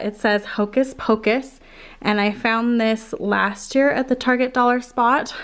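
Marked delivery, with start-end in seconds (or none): 2.0-5.3 slightly winded, out of breath; talking while still out of breath. Real, not acted. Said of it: "Sorry, I'm so out of breath".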